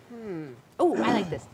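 ordinary talk, nothing marked

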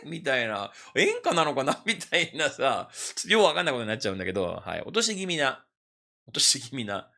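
usual speaking voice

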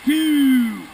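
loud, sharp count; called out count. Real, not acted. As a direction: bark the stroke count. Guide counting strokes aloud.

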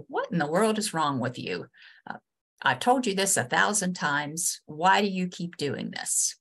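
exasperated scolding, mildly acted; a touch of frustrated reproach; worked up. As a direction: confront someone who keeps ignoring you, lightly acted. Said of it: "you can hear the inflection in my voice".

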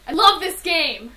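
slow, loud overblown praise; exaggerated hype. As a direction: oversell it like an ad. Hammy game praise.

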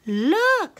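high, loud squeal from a little bear; Little Honey. A narrator's reading. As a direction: squeal it out in alarm. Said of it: "squealed Little Honey".

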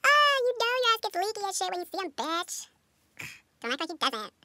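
high mocking teasing voice; teasing friend. Teasing her friend about liking him, mocking high voice. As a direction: needle her about her crush.

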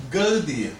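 "Good deal" as Gaudia, stress on first A; accent on the A. Shown as a demonstration. Teacher showing the accent, "Good deal" as GAU-dia. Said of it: "on the A".

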